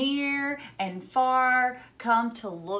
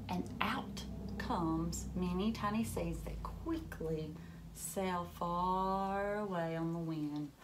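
storybook whisper; 3 semitones lower, 8 dB quieter than usual. A narrator's reading. Reading to kids, whispers as the seeds sail off. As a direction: breathe it out as the seeds drift away.

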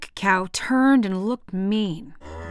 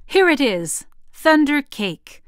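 excited; 6 semitones higher, 5 dB louder than usual. Acted. Grandma delighted at recipe.

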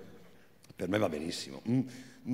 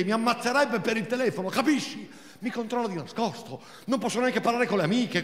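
higher, louder, hysterical rant; Marina's thin voice; 6 semitones higher, 4 dB louder than usual. Acted. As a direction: rage on, high and thin. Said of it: "quella sua voce sottile e inadeguata". (voce sottile, isterica)

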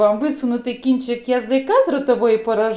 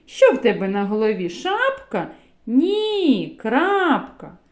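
playful dialogue; 2 semitones higher than usual. Acted. Acted dialogue poem with letter.

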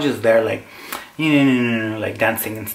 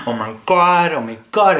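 mock panic; 3 semitones higher, 4 dB louder than usual. Acts panic driving home.

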